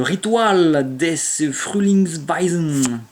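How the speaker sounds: slow, careful German read with a French accent. Real, not acted. French streamer reading a German card name, slow French-accented German. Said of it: "mon accent ridicule".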